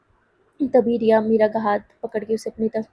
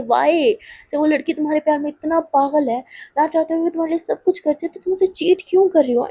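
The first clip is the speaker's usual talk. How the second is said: mildly indignant, higher-pitched questioning; acted reproach, pitch climbing; angry confrontation; 5 semitones higher than usual. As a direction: demand an answer with a touch of anger. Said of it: "उसे गुस्सा आ रहा था".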